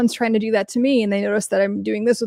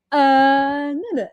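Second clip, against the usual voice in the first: higher, fading dismissive no; mock dismissal; 5 semitones higher, slower than usual. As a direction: wave her off, mocking. Imitating Andy Dick dismissing her.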